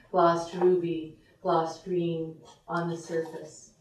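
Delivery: measured poem reading with lingering line endings; poetry reading. Acted. Poet reading to a gathered audience, measured recital. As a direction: read it as verse, phrase by phrase, letting lines settle.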